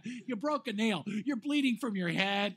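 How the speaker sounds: loud, slow incredulous repeat; playfully incredulous, loud and drawn out; mock disbelief. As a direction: stretch it out in amused disbelief. Mock disbelief at wife's trivial complaint.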